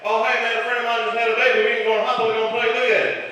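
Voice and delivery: high, fast rambling Texan mumble; Boomhauer. Retold or imitated. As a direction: rattle it off fast and high, slurred. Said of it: "I thought I'd called Boomhauer".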